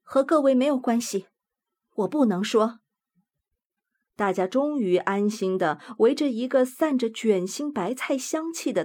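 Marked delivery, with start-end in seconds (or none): 0.0-2.8 solemn. Acted. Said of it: "用一种非常庄严的语气说".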